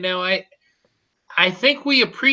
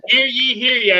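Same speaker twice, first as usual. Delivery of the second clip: town crier; 5 semitones higher than usual. Pretend. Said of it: "I forgot the bowing part".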